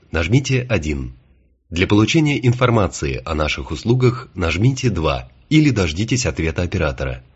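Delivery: a light automated phone greeting; phone menu voice. Acted. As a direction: read it like a recorded phone menu. Автоответчик компании. (голос телефонного автоответчика)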